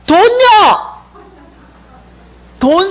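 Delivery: high, loud plea for money; desperate cry for money. Retold or imitated. Broke woman crying out to the three figures for money. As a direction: beg out loud, pitch jumping up. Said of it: "제가 이렇게 구하는 거예요".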